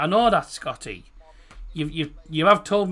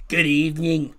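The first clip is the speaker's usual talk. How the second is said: put-on Scottish accent. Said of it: "if you're Scottish".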